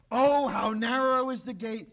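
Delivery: "Oh" stressed, a plain firm declaration; declaring. Retold or imitated. Preacher voicing Jesus declaring to listeners, mild declaration. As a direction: proclaim it, understated. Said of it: "he declares".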